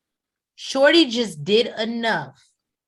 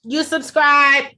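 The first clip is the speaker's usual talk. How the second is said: sounds like Obama; 7 semitones higher, 7 dB louder, slower than usual. Real, not acted. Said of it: "Why you sound like Obama said?".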